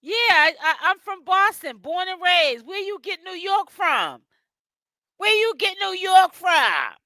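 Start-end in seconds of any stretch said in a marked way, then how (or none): 5.2-6.9 higher and louder, same question shouted back; exasperated shout. Real, not acted. Streamer shouts the question again at a viewer, exasperated. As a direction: really demand an answer this time.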